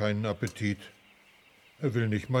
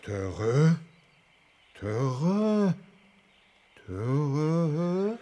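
elephant talk; 3 semitones higher, much slower than usual. Acted. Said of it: "frag Nandu mal".

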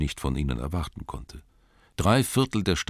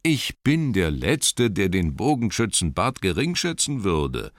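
cautious placating; 4 semitones higher, 3 dB louder than usual. Acted. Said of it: "behutsam einlenkend".

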